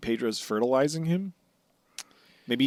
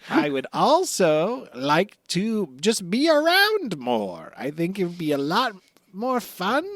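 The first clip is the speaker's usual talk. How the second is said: Buggy. Acted.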